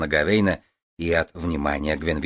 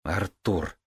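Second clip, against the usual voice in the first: gentle reproach; 5 dB quieter than usual. Acted. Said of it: "мягко укорила Маргейна".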